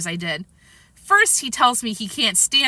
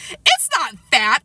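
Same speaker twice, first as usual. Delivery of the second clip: slow, louder protest; shout; 5 semitones higher, 5 dB louder, slower than usual. A narrator's reading. Peter defending Izzy to Sheila, shouting. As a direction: raise the voice, drawing out the denial. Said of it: "I shouted".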